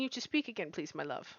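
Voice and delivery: unvoiced soft whisper aside. Real, not acted. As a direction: whisper it to your partner. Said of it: "whispered aside to partner".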